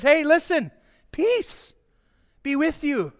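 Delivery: high, calling-out greeting; high-pitched greeting. Acted. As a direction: lift the voice well up. Acts Jesus entering alive, greeting.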